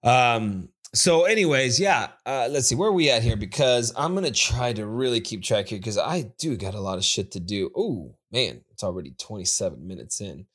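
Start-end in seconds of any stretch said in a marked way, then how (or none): none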